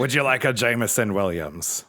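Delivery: pirate voice. Acted. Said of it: "I went with a pirate voice on that".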